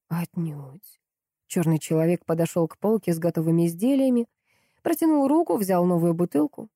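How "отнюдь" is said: much softer single-word denial; curt reply. A narrator's reading. Stranger answers Paul softly, settling the matter. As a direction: drop it quietly and with finality.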